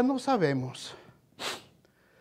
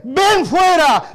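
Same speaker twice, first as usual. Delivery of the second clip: very slow drawn-out call; Jesus's command; 7 semitones higher, 8 dB louder, much slower than usual. Acted. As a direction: stretch the call out slowly. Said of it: "Y Jesús dice". (llamado lento y alargado)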